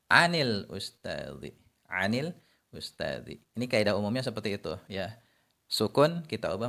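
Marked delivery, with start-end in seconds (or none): 0.1-3.4 anil ustazi said slowly, an linked with an i; connected reading. Shown as a demonstration. Teacher models the linked form of an. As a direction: link an into ustazi through an i. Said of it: "Kalau mau bi-, kita baca bersambung".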